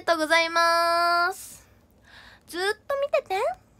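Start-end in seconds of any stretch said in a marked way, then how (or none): 2.5-3.7 cutesy plea. Acted. Far high cute plea.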